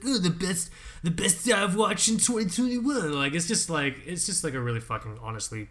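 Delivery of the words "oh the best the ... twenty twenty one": mock award-show gush.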